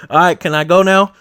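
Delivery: put-on high, loud whining kid voice; impatient kid. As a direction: beg to be let go. Kid begging to leave.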